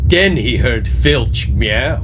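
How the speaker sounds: ordinary talk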